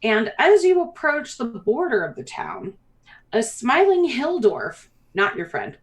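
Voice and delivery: lilting scene-setting narration; game master narration. Acted. Game master welcomes players to Briar Glen, storytelling lilt. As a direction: paint the arrival for the players.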